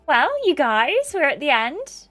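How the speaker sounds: high, slow swooping opener; hammed-up tearful sweetness; teary speech-giver. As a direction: open a farewell speech, high and emotional. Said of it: "Harvey smiles tearily".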